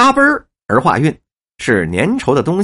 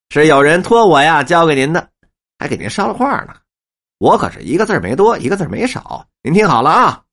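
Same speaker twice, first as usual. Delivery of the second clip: a hint of a teasing wife; passing on a message with mock politeness; lightly voiced wife. Wife teasing the old man with a message, lightly voiced. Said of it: "妻子就笑笑说".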